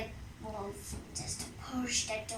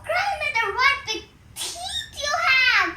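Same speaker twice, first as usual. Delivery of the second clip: much higher amazed exclamation; surprised; 13 semitones higher, 4 dB louder than usual. Acted. Girl amazed at the wolf's big ears, high and wondering. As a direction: gasp it out in wonder.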